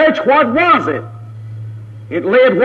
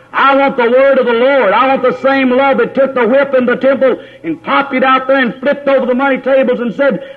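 preaching at full force, raised; fiery preaching; 2 semitones higher than usual. Acted. Preacher to his congregation, fiery preaching. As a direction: drive the sermon home with fire.

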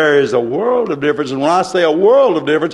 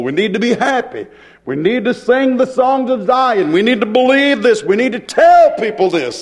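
rolling repeated phrases that climb in intensity; fervent preaching. Acted. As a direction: build the exhortation step by step. Preaches at full force.

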